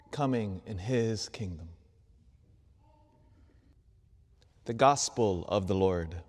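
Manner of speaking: measured liturgical reading voice; gospel reading. Acted. Priest reading the gospel to the congregation, solemn proclamation.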